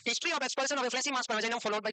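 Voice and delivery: slow, careful dictation of the feature. Shown as a demonstration. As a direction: read out slowly for notes. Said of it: "देखो". (धीमे स्वर में लिखवाना)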